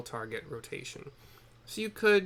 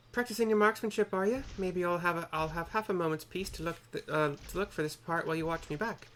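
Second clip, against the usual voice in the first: a lightly raised, teasing woman's voice; NPC voice; 6 semitones higher than usual. Acted. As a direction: tease the newcomer a little. Reads NPC dialogue in a voice.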